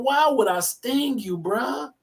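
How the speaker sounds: high, drawn-out protest as the scorpion; lightly voiced scorpion, pitched high and slow; scorpion pleading innocence. Scorpion asking the frog for a ride, pleading innocence. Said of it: "I'm gonna put in the sheet".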